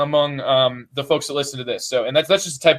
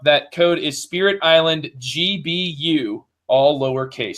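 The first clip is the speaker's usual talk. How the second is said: slow and clear; slower than usual. Shown as a demonstration. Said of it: "spells out the code".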